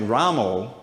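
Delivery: Ramo ending in an O sound; improper Ramo. Shown as a demonstration. Teacher showing a chanting slip, Ramo mispronounced. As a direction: say Ramo with a long O at the end. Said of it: "that's not proper".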